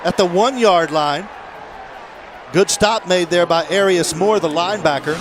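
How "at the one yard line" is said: excited play call. Real, not acted. Live play call, big run.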